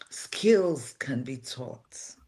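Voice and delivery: slow, whispered reassurance; confiding whisper. Real, not acted. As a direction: lean in and whisper it slowly, like a secret. Reassuring the unqualified listener.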